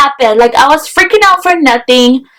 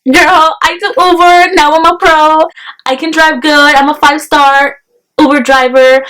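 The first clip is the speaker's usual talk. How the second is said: mock bragging; 4 semitones higher than usual. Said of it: "I started laughing 'cause I was like".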